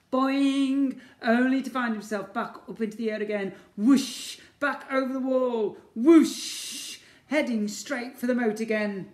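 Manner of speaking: high, loud, racing action narration; excited bouncing. Acted. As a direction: thrill the kids with the flight. Ned bouncing through air.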